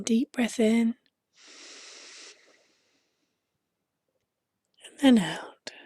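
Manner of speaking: breathy whispered breathing cue. Shown as a demonstration. Breathing instruction repeated "again.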